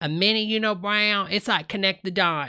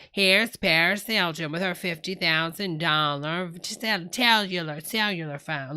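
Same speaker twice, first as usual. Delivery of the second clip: lightly attempted host accent; slipping, put-on accent of a TV host; TV show host accent. Streamer mimicking how he would brag about all the stuff, slipping accent. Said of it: "I've lost the accent".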